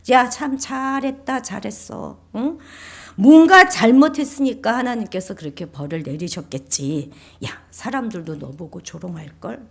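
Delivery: mildly mocking jibes; lightly acted taunting accuser; sly sarcasm. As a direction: needle them with fake praise. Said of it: "은근히 빈정대지요".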